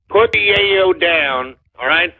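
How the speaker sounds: "Put the yayo down" said slowly and firmly, each word weighted; slow firm repeat. Real, not acted. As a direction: lay it down slowly like a warning.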